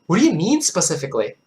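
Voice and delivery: shaky attempt at an Irish accent, veering Scottish; badly faked Irish accent. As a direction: try an Irish accent and miss toward Scottish. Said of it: "he asked with an Irish accent".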